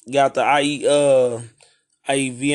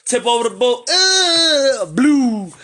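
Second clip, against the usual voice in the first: excited storytelling; 7 semitones higher, 4 dB louder than usual. Retold or imitated. Excited retelling of attack.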